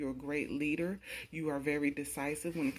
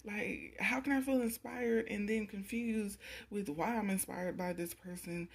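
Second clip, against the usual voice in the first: higher, puzzled mock outburst voicing them; voicing their baffled frustration, pitched up; confused exasperation; 6 semitones higher than usual. Spirits voicing confusion about the querent, pitched-up exasperation. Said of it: "they are just like".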